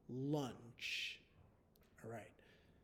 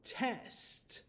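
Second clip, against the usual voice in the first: whispered dictation; 8 semitones higher than usual. Shown as a demonstration. Teacher whispering a spelling word to students. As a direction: breathe the word test. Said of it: "the word is".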